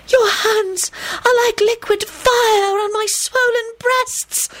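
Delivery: high, slow, moaning nymph; wailing.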